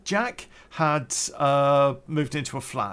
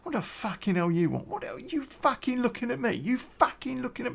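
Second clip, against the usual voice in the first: high, rough Cockney gangster put-on, much higher; Cockney tough-guy snarl, pitched up; mock Cockney; 10 semitones higher than usual. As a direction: do a mock Cockney hard man. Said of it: "these Cockney accents".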